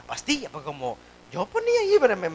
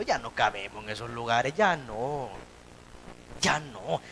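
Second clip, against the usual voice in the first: soft and low; 10 semitones lower, 9 dB quieter than usual. Real, not acted. Preacher drops to intimate tone.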